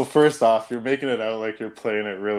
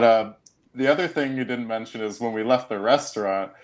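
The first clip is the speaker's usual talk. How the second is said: normal talking voice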